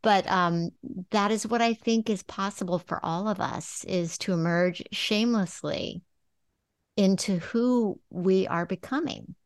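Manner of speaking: real emotion rising, pitched a little high; on the verge of happy tears; moved near tears. Real, not acted. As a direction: choke up while speaking from the heart. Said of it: "I'm gonna cry".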